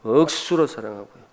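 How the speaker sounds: Gyeongsang word with a stretched first syllable; Gyeongsang dialect. Shown as a demonstration. Preacher showing love in local words, Gyeongsang dialect. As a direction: draw out 억수로 the Gyeongsang way. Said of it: "경상도 말로".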